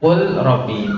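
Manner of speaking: "Kul robbi" with l kept separate from r; clear lam. Shown as a demonstration. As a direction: sound the l fully in "Kul robbi". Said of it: "rumusnya seperti itu ya". ("Kul robbi", lam dibaca jelas)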